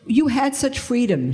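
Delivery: a hint of the disapproving friend; imitating her. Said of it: "she said to me".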